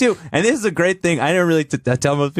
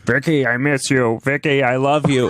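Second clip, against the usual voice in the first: raspy voice. Retold or imitated. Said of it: "like, raspy voice".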